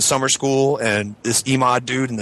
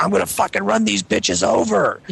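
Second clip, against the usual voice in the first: retold threat; 7 semitones higher than usual. Retelling his threat in car.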